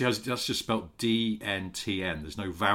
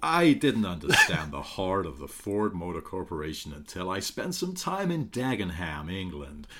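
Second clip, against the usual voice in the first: Bill Ford. Pretend. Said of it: "I'm Bill Ford".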